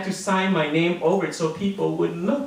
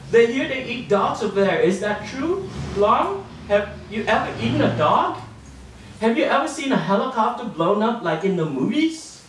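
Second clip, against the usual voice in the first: put-on nosy kids; 6 semitones higher than usual. Kids firing rude questions.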